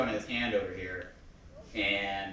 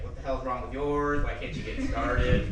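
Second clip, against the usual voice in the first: retold smack talk; 2 semitones higher than usual. Dad mocking his child's stalled jet ski, retold smack talk. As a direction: imitate a dad's ribbing, slowing into the last question. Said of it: "my dad was talking smack".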